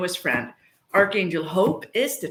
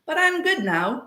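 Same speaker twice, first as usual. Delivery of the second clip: angel's reply; 8 semitones higher than usual. Retold or imitated. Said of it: "He was like".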